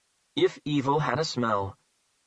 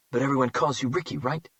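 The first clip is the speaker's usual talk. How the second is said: cold, throaty, quick taunt. Acted. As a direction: taunt him coldly. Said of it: "back to being throaty and cold".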